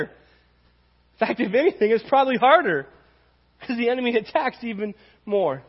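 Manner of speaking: earnest, rising protest; emphatic insistence. Retold or imitated. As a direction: press the point hard. Pastor insists he is human.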